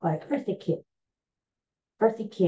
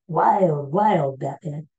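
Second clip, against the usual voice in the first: put-on Otto Preminger accent; 4 dB louder, slower than usual. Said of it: "he had that accent".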